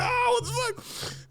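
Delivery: very high, drawn-out wail; shrieked protest. Retold or imitated. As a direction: cry out slowly as if drenched. Reenacts reaction to being soaked.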